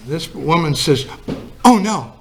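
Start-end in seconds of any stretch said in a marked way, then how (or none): 1.6-2.1 higher, louder sudden alarmed gasp of words; a wife suddenly remembering the Sabbath, mock frantic. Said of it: "And she got frantic".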